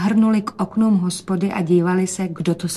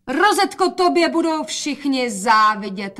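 high, slow proud call; 6 semitones higher, 4 dB louder than usual. A narrator's reading. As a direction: call out in admiration. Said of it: "volala matka". (zvolání s obdivem)

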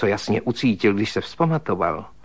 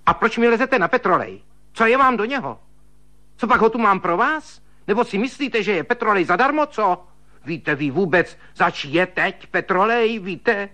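shrill scolding; 9 semitones higher than usual. A narrator's reading. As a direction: rail at him over the cost. Švagrová hubuje kvůli petroleji. (švagrová vysoko a hlasitě hubuje)

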